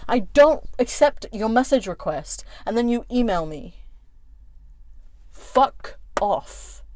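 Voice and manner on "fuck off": hissed under breath. Real, not acted. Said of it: "I'm making it plain as day".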